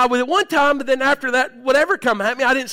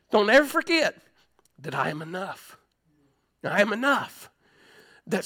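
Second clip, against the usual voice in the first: tender voice of God; 3 semitones lower, slower than usual. Acted. God speaking tenderly in prayer.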